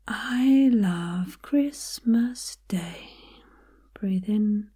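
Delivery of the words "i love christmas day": "I love Christmas Day" drawn out very slowly; emphasis exercise. Shown as a demonstration. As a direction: stretch "I love" on a long breath. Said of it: "put the emphasis".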